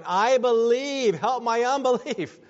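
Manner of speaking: desperate father's plea. Retold or imitated. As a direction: beg it like a father afraid for his son. Father in Mark begging Jesus.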